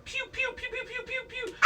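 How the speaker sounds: high-pitched rapid pew-pew blaster noises; imitated laser fire. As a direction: play the blasters like a kid's sound effects.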